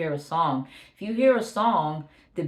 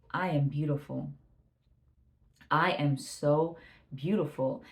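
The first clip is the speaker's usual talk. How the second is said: self-affirmation; 2 semitones lower than usual. Shown as a demonstration. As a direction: say it gently to yourself, taking your time. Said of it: "I had to correct that thought".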